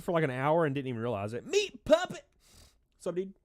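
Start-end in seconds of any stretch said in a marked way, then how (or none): 1.5-3.3 excited greeting. Real, not acted. Calling out a viewer's name.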